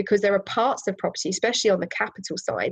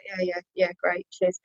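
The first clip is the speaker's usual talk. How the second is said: mock disinterested brush-off, slightly quieter; giving nothing; 4 dB quieter than usual. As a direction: imitate shutting a chatty stranger down. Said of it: "Just giving her nothing".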